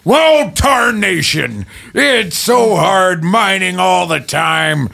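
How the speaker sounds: put-on old prospector. Improv miner character in mine.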